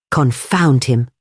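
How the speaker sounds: slow, mildly angry outburst; furious cry. Acted. Doctor curses the vanished Indian, slow and mildly furious. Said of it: "cried the doctor, stamping furiously".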